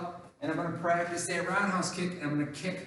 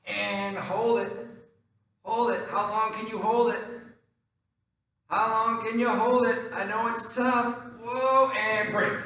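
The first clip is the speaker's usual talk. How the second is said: coaching encouragement; 5 semitones higher than usual. Real, not acted. Coach urging a held plank.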